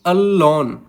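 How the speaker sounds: अलोन with weight on लोन; unstressed अ, then a stressed लोन; stress on second syllable. Shown as a demonstration. Teacher giving an iamb example, stress on लोन in अलोन. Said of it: "जो लॉन syllable है दोस्तों वो एक stressed".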